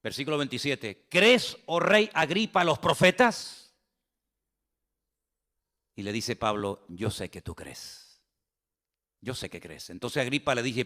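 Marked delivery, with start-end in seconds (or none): 1.1-3.7 slow, raised, solemn question to a king; solemn challenge. Acted. Paul appealing to King Agripa, solemn. 6.9-9.9 much lower and softer, slow and sure; soft knowing answer. Acted. Paul answering the king, hushed and certain.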